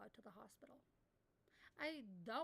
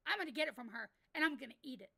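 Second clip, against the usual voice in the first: louder, building hype about eating it; bragging to chat, voice rising loud; loud boast; 7 dB louder, faster than usual. Real, not acted. Streamer brags to chat, getting loud.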